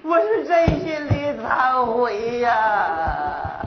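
long mock sob, sinking at the end; hammed-up wailing. Fake customer repenting to the boss by phone, wailing. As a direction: stretch each word into a slow wail. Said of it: "您别哭了好不好".

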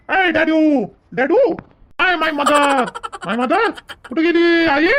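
calling out. Acted. Calling parents in seemingly empty house.

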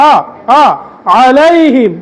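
"আলাইহিম" begun on the ain "আ", first said alone twice; clear opening vowel. Shown as a demonstration. Teacher showing the first sound of the word, careful "আ" then "আলাইহিম". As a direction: isolate "আ", then start "আলাইহিম" with it. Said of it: "এখানে হবে আ দিয়া".

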